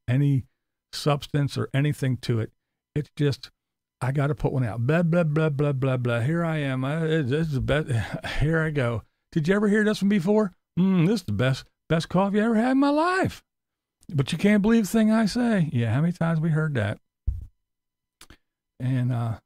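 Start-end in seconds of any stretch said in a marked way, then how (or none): 4.0-15.7 a sneering mock of the YouTuber; lightly voiced parody of a bragging vlogger; mocking Tim. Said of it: "mocking quote of Tim".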